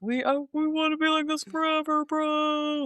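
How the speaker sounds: high, dopey bro voice; frat bro. Retold or imitated. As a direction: play a partying frat guy. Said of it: "they're like".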